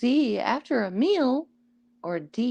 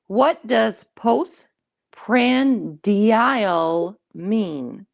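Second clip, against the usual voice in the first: put-on slow drawn-out valley girl question; much slower than usual. Shown as a demonstration. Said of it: "I'll say it like, like a white girl".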